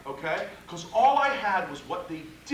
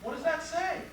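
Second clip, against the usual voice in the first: higher, wondering hmm as a nosy juror; curious juror voice; 7 semitones higher, 5 dB quieter than usual. Retold or imitated. Lawyer imitating jurors curious about the poster, higher and wondering. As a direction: play the intrigued juror leaning in. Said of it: "Everybody goes".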